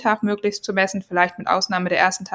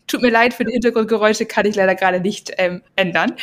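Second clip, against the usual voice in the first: laughing apology. Real, not acted.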